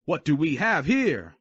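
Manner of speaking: slow loud sneering; menacing question. Acted. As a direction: ask with a threat. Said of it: "he questioned".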